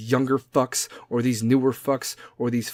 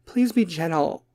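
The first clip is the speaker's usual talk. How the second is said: higher, slow mock-sweet plea; Kim K; 5 semitones higher than usual. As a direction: drag it out in fake celebrity sweetness. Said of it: "is going to be all Kim K".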